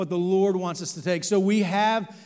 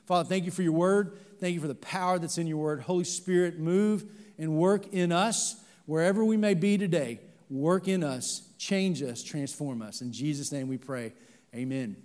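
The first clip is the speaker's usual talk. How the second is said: prayer. Real, not acted. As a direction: pray earnestly for the church. Leads a prayer.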